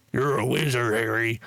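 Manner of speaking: low, put-on character voice; attempted film-quote voice. Streamer attempts the famous wizard line, put-on low voice. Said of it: "I don't think I did the voice right".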